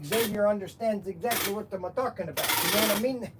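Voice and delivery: put-on comic character with a foreign accent; Mister Wiggins. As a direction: play a sketch-show boss with a thick comic accent. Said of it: "I'm gonna talk like this".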